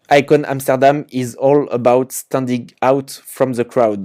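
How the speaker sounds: slow English read with a French accent. Real, not acted. Reading the store's English footer slogan aloud, French-accented English. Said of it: "désolé pour mon accent anglais".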